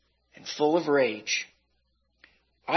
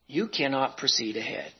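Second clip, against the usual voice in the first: whispered; 3 semitones lower, 6 dB quieter than usual. Acted. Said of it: "He whispered".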